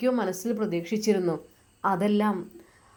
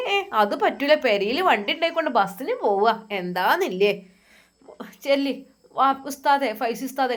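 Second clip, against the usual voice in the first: put-on insistent older woman; 4 semitones higher than usual. Aishumma insists he take the car.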